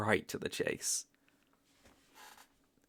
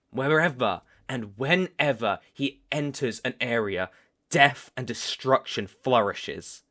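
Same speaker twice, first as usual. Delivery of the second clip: louder, slowing on the last words; ominous telling; 6 dB louder than usual. Acted. Hunter warns the fledgling of his sire, loud ominous telling. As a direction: proclaim the dark legend gravely.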